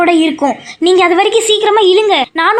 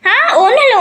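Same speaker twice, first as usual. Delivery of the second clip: giggly, rising "ஒண்ணும் இல்ல" covering up; nervous laugh denial; 6 semitones higher, much faster than usual. Pretend. Caught out, denies to villain.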